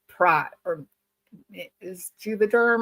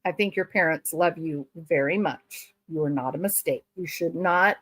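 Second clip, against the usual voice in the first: mock reassuring; 5 semitones lower than usual. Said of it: "consoling contestant on screen".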